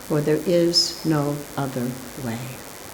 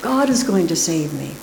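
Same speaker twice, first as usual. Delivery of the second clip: much higher, louder insistent no; man refusing; 8 semitones higher, 4 dB louder than usual. A narrator's reading. Man refusing the helicopter line, high insistent refusal. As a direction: insist on trusting God. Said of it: "the man replies again".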